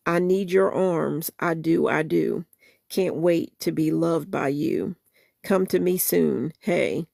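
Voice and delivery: soulful spoken-word recital of a love song; spoken-word lyric reading. Acted. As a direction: read the song words with feeling, half-performed. Reads song lyrics aloud.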